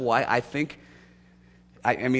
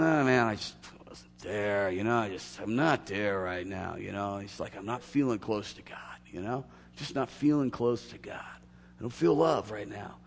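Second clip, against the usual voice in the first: imitating a downcast member; 4 semitones lower, 4 dB quieter than usual. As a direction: sound let down and far from God. Church leader quotes a discouraged member.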